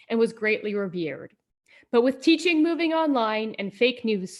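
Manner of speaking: epic quest narrator voice; storybook narration. Acted. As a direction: tell it like a fantasy saga.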